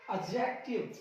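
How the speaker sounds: एडजेक्टिव with a silent D; "uh" opening, no D in एडजेक्टिव; correct pronunciation. Shown as a demonstration. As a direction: say एडजेक्टिव as "uh-jective". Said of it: "नहीं होता".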